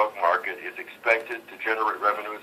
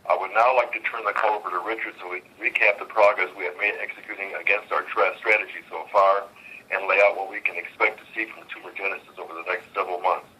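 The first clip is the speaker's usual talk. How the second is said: on speakerphone. Real, not acted. Earnings conference call over phone.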